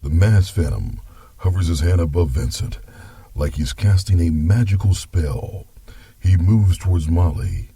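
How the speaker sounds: story narration. Acted. Grandpa narrates.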